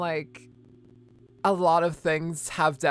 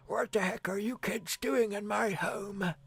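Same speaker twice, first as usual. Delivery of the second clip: put-on gruff old man shouting at kids; grumpy old man; 4 semitones higher than usual. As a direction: yell like a cranky old man. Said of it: "I'm just gonna assume it's an old guy".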